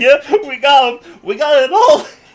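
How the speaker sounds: play-acted, high, loud speech through laughter. Retelling how she sat there saying it: imitating someone laughing while talking. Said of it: "She's sitting there laughing".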